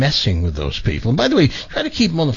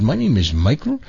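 mimicking a call-center greeting, rising at the end; lightly put-on support agent voice; imitated tech-support voice; 2 semitones lower than usual. Host retelling a tech-support call, imitating the agent. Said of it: "I did the same voice he was doing".

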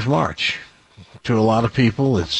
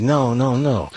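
dying stab man. Retold or imitated. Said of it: "my impression of a dying stab man".

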